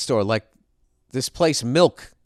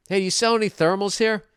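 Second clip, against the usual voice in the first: higher-pitched hopeful query; acted customer question; 8 semitones higher than usual. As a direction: ask it up high, politely. Acts himself asking the clerk.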